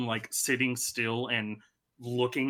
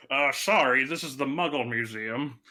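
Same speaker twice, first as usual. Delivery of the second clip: museum guide voice. Pretend. Museum guide role-play.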